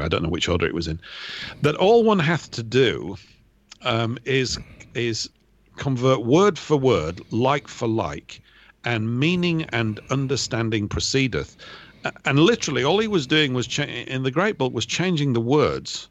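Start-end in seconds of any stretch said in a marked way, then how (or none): 1.6-11.6 put-on very slow, measured recital of an old quote; quoting Tyndale. Paraphrasing a translator's note, slow deliberate quoting. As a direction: deliver each phrase slowly, with pauses between. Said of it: "and he said".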